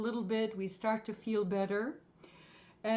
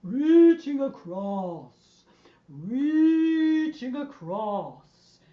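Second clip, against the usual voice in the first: slow, loud, low swooping voice; very low sing-song; 8 dB louder, much slower than usual. Shown as a demonstration. Teacher showing the group the low voice, slow and low. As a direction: draw it out from the bottom of the range. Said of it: "And very low".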